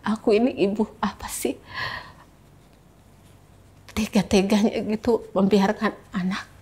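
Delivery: halting, pained confession; choked up. Real, not acted. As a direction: struggle to get the words out, with long pauses. Recalls feeling a failed mother, then breaks off.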